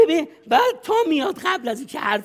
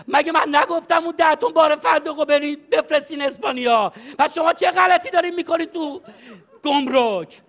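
a mild mock yell down the phone, laughing; pretend-scold an employee, half laughing; hammed-up boss yelling with a laugh; mock yelling at staff; 3 semitones higher than usual. Shown as a demonstration.

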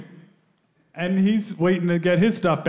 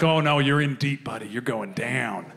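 noir cop; 5 semitones lower than usual. Retold or imitated. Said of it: "sounds like a noir film".

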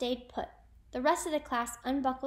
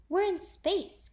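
high, loud, slow cheer; 8 semitones higher, 5 dB louder, slower than usual. A narrator's reading. A singer celebrating reaching space, cheering. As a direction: stretch it out triumphantly. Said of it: "She cheered".

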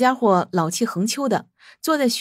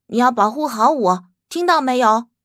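bossy CEO tone; 3 dB louder than usual. Acted. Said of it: "语气依旧是霸道总裁范儿".

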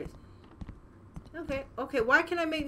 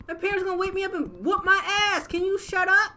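annoyed; 6 semitones higher, 5 dB louder than usual. Real, not acted. Toy keeps making noise.

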